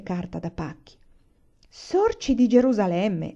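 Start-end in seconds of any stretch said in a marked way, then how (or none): 1.7-3.3 slow, drawn-out cry of surprise; papà stunned by the find, exclaiming slowly; papà unwraps a frozen turkey, slow amazed exclamation; surprised exclamation. Acted. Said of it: "esclamò".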